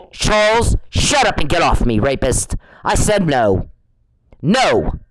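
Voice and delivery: ordering him out of her life, fed up; angry telling-off. Real, not acted. Fed-up woman orders a persistent man away, angrily.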